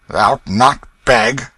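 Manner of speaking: loud, slow, disbelieving cry; astonished exclamation. Acted. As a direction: Hugo can't believe his ears. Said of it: "exclaimed Hugo".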